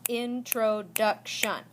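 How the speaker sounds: "introduction" slowly, in four separate beats; syllable by syllable. Shown as a demonstration. Teacher counting syllables for students, "introduction" drawn out beat by beat. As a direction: break "introduction" into in-tro-duc-tion, very slow. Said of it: "introduction has four syllables".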